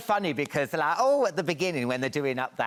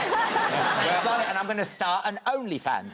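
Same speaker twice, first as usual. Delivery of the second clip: laughing mock triumph; 4 semitones higher than usual. To the host, gleefully laughing over the surviving footage. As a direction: stretch it out through a laugh.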